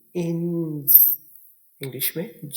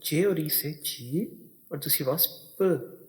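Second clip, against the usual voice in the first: slow sounding out. Shown as a demonstration. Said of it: "देखिए".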